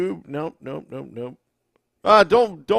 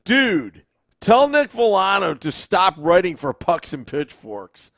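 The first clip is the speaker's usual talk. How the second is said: reading comment aloud; 4 semitones higher, 6 dB louder than usual. Retold or imitated. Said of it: "You want me to read it?".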